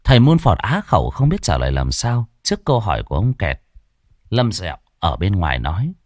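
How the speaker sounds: plain reading voice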